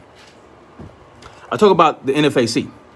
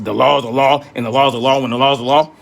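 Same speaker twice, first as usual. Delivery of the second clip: mock mantra; faster than usual. Mocking law-abiding citizens' mantra.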